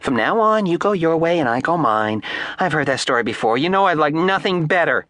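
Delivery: high, mocking echo of his words. A narrator's reading. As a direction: mimic him to mock him. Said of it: "interrupted Ardita ironically".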